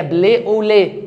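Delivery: French blé au lait, syllables set apart; French pronunciation. Shown as a demonstration. Teacher shows class the French name, French pronunciation. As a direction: say "بلي او لي" as careful French. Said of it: "بتتنطق كده".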